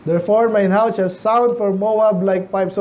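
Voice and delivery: slow, measured Bible reading; scripture reading. Acted. Pastor reading Isaiah to the congregation, slow and solemn. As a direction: read the verse slowly and solemnly.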